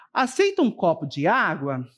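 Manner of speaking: questioning rise; asking a question. Shown as a demonstration. Teacher demonstrating a polite question to a guest, rising. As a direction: offer the water as a real question. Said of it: "uma frase interrogativa, uma pergunta".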